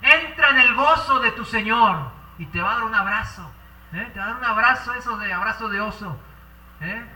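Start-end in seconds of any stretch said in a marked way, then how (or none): 0.0-2.1 slow, laughing-warm blessing; slow joyful welcome. Acted. The Lord welcoming the faithful into joy, slow and glad. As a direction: welcome them home with joy, unhurried. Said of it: "Y él va a decir".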